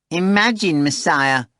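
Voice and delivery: high, loud gleeful outburst; cheerful excited shout. A narrator's reading. Behemoth telling Voland the news, high gleeful shout. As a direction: burst in bubbling with glee. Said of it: "Behemoth shouted with cheerful excitement".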